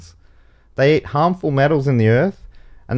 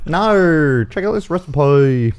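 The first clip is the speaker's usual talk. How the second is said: American doing Australian; 4 semitones higher, slower than usual. Retold or imitated. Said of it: "an American doing an Australian accent".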